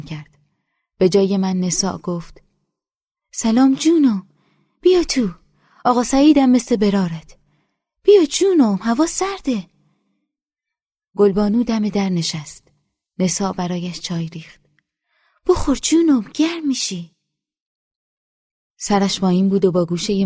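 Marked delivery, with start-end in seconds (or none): 3.3-9.7 very high, coaxing call; high motherly older woman voice; coaxing village woman. A narrator's reading. Nesa welcomes the girl. 15.5-17.2 very high, coaxing call; high motherly older woman voice; coaxing village woman. A narrator's reading. Nesa offers tea.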